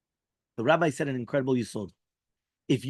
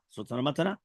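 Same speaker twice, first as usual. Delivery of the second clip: quiet echo; 6 dB quieter, faster than usual. Shown as a demonstration. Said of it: "repeats conclusion, second take".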